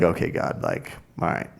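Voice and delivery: soft, low mumbled concession; lightly acted sheepish backing down; meek retold apology. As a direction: give in quietly, voice dropping away.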